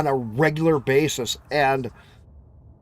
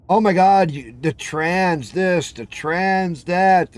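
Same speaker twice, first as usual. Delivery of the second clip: slow, drawn-out sarcastic mimicry; mocking whine; slower than usual. Mocking the constant trans coverage, slow sarcastic drawl. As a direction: drag it out like it's tiresome. Mocking what he keeps hearing.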